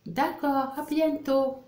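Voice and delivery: high, lilting goodbye; Mustapha in read dialogue. Acted. Teacher voicing the end of a phone call, high acted goodbye. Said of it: "Je lis le dialogue".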